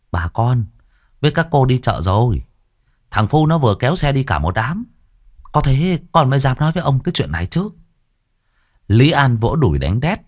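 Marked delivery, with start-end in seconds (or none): 0.1-7.7 higher, faster conspiratorial servant; sly servant. Acted. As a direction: hurry to reassure the master. Sửu reassures, rising quickly. (giọng đầy tớ thì thào nhanh)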